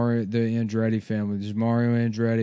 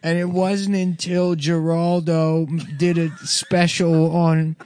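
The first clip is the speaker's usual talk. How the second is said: put-on Italian accent; 6 semitones higher than usual. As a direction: deliver the book report in a New Jersey Italian voice. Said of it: "He's doing an Italian accent".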